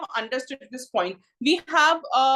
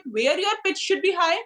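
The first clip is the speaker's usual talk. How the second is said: higher voice rising up to HIGH; high pitch; 4 semitones higher than usual. Shown as a demonstration. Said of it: "So that is intonation".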